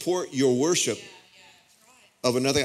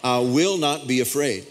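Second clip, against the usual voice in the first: congregational declaration. Shown as a demonstration. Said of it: "Everybody say this with me".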